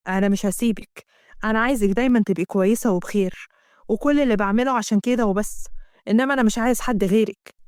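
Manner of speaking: a hint of a pleading man's voice; lightly voiced tender husband.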